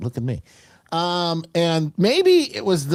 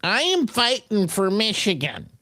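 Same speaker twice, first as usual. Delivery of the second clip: a higher, mock-earnest parrot of her line; 6 semitones higher than usual. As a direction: echo her slogan back with a sneer. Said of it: "It's all an act".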